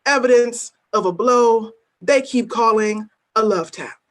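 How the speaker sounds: deliberate, weighty spoken-word recitation; a poet performing at a reading; spoken word poem. Acted. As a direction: lay each image down slowly, letting the refrain land. Reads her poem aloud.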